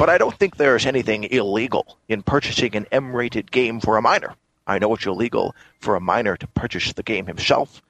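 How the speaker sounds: slurred Scottish film-star impression; Sean Connery. Co-host reading the news post on request, Connery impression. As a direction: read it out as a passable Scottish screen legend. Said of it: "a passable Sean Connery for you".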